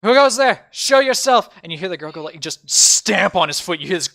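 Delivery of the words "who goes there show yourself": loud, high guard's shout; full-voiced acted yell; yelling challenge. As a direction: call out a challenge into the unknown. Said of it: "He yells".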